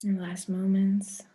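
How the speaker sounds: measured meditation voice with long pauses; guided meditation. Real, not acted. Guide leads the group through breath and intention, guided meditation. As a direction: stretch the key words, leave room to breathe.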